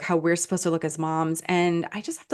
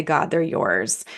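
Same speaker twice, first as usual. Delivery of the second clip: soft prayer; 3 semitones lower, slower than usual. Shown as a demonstration. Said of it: "hold them up and say".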